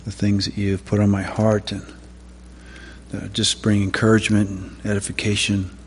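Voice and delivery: quiet, conversational prayer; opening prayer. Real, not acted. Preacher asking the Father to speak through him, quiet prayer. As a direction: pray softly and simply, trailing off at the end.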